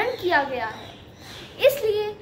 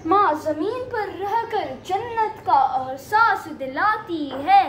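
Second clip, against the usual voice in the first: measured verse delivery; poem recitation. Acted. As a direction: recite it as a line of poetry. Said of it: "कविता पाठ को आरंभ करते हैं".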